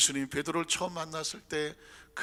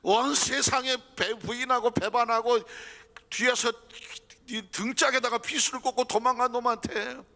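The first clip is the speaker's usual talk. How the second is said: fervent preaching; 5 semitones higher, 6 dB louder than usual. Acted. Preacher rising to a loud climax. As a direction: drive home the betrayal.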